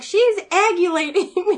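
high, loud child imitation, "aggravating" said as AG-yuh-lay-ting; child's mispronunciation. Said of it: "trying to say aggravated".

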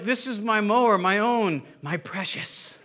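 creepy, clinging voice over a beloved treasure, ending in a laugh; hammed-up precious-treasure voice. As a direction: croon over the mower like a treasure-hoarding creature. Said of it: "start weeping and be like".

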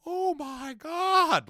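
high, loud, drawn-out mock amazement; slow, high-pitched exclamation of disbelief; awestruck kid. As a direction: act out a stunned kid watching, stretching each word.

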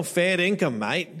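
badly faked Aussie slang; amateur Australian accent, pitched a little down. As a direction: toss off an Aussie phrase in a poor accent. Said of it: "Is that a pretty bad accent".

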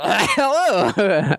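mock drawn-out hello, pitch swooping up; mocking half-pirate greeting. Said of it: "So it was like".

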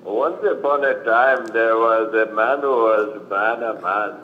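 slow, lightly put-on Indian accent; Indian accent bedtime story. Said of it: "accent to read me a bedtime story".

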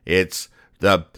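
worked-up commentary; heated rant. Real, not acted. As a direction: build into a fired-up explanation. Ranting about grass is greener.

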